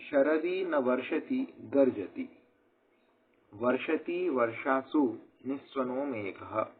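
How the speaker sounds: slow, measured Sanskrit recitation; shloka recitation. Shown as a demonstration. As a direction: chant each word slowly and clearly. (धीमा श्लोक पाठ)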